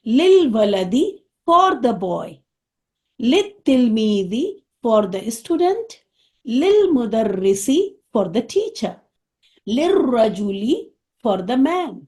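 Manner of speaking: each Arabic phrase then its English, very slowly; slow drill. Shown as a demonstration. Teacher drilling her students word by word, very slowly. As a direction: spell it out for beginners, very slowly. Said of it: "ال والے میں English میں کروں گی".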